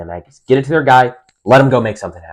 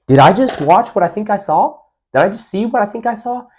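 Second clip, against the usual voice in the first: much higher, incredulous fan voice; a viewer who can't believe the trick play; stunned disbelief; 11 semitones higher than usual. Retold or imitated. Imagined viewer reacting to a trick play, stunned high disbelief. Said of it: "you're gonna be like".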